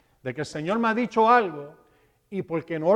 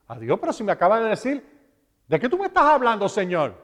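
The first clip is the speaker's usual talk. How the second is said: quick, higher-pitched baffled question; mock bewilderment; 4 semitones higher, faster than usual. Preacher retelling his forgetful reply to the Lord, mock bewildered. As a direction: replay a puzzled protest, rushed and rising.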